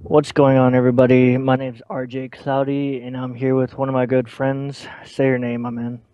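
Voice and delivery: loud upbeat channel intro; YouTuber intro. Acted. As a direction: hype up the viewers.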